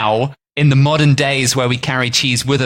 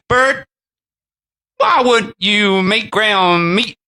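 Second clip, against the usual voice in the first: mild butcher voice; 9 semitones higher, 4 dB louder, much slower than usual. Acted. Voicing the German butcher.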